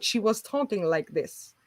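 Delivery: mimicking a troubled throat; imitated throat condition. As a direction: talk like someone with a throat condition. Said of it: "some kind of condition with her throat".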